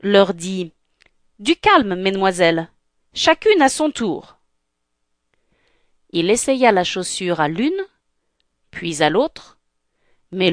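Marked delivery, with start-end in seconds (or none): 1.4-4.4 mildly exasperated servant; slightly annoyed. Acted. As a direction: call them to order with some impatience. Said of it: "un peu agacé". (légèrement agacé)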